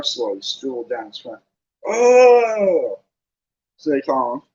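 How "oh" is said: high, loud thrilled "Oh!"; fascinated gasp. Acted. Colin exclaims, fascinated by the slugs. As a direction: cry out in delight.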